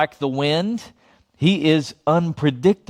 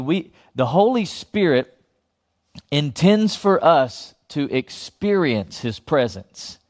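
first saying; slower than usual. Shown as a demonstration. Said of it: "I'm gonna say that again".

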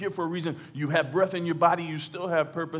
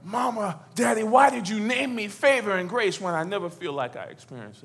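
higher, mildly pained questioning; lightly voiced Hannah; 4 semitones higher than usual. Hannah asking her parents about her name, mildly pained. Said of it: "what it's like being like her".

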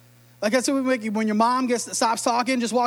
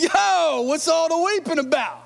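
1 casual modern Jesus; 6 semitones higher than usual. Retold or imitated. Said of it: "He's like".

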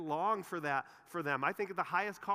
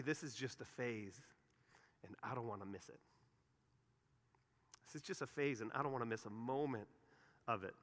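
much softer and lower, savoring each word; tender parent; 6 semitones lower, 9 dB quieter than usual. Retold or imitated. Pastor voicing great parents cherishing the phase, soft and tender. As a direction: hush it like something precious you don't want to lose. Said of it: "great parents say".

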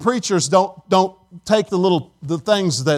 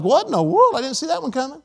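taken aback; 4 semitones higher than usual. Retold or imitated. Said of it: "I was like".

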